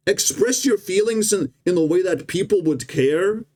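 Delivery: a lighter echo of the chipmunk squeak; mocking chipmunk voice, toned down. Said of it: "this little chipmunk says".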